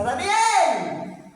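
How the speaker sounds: llamado agudo y fuerte hacia el foso; llámalo a gritos, con angustia; grito llamando. Acted. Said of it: "se acerca a la puerta del foso y grita". (el rey grita el nombre en la puerta del foso)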